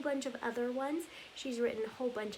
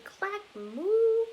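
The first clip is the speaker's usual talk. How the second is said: high, loud drawn-out cow moo; 9 semitones higher, 10 dB louder than usual. Acted. Cow sound in story chant.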